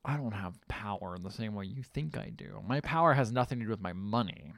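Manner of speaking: low, soft mock-sinister monologue; understated retold menace, low and soft; hushed villain speech.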